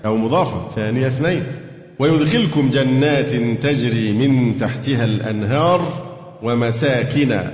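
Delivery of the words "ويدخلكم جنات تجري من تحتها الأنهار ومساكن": slow, measured Quranic recitation. Acted. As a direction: recite the verse slowly and carefully. Teacher recites the verse. (تلاوة قرآنية متأنية)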